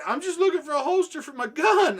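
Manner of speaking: high, loud mock protest; pleading excuse. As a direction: imitate a caught man protesting his innocence. Retold robber's pleading excuse.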